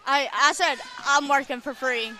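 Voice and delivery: talking around a hard candy; candy in the mouth, excited; sucking a hard candy. Real, not acted. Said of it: "you got candy in your mouth".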